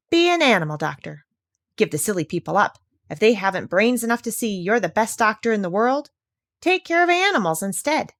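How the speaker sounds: lightly voiced bossy parrot; parrot Polynesia. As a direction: insist like a clever bird.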